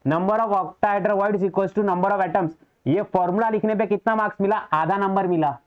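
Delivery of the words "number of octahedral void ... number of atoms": slow dictation. Shown as a demonstration. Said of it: "इधर ध्यान दो".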